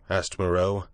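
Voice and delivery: ordinary delivery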